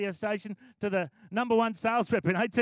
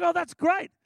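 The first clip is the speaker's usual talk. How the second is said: delighted; 9 semitones higher, 6 dB louder than usual. Retold or imitated. Pastor delighted at Ashley's news.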